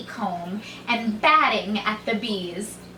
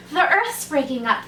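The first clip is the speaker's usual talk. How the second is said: panting; 5 semitones higher than usual. Acted. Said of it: "they panted".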